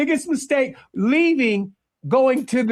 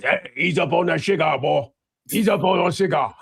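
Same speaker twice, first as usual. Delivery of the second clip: fake Southern accent; 6 semitones lower than usual. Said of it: "all you gotta do is get that voice".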